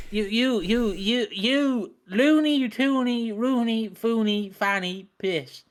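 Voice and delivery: stuttered build-up into sing-song nonsense rhymes; mimicked rhyming insult. Mocking Cena trying to be like The Rock, sing-song insult. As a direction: trip on "you", then tumble down the silly rhymes.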